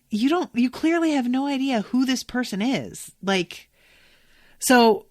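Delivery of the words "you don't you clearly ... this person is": raised-pitch, exasperated rebuke; indignant disbelief. Retold or imitated. Viewer scolds man treating her like a child, indignant. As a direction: tell him off in disbelief.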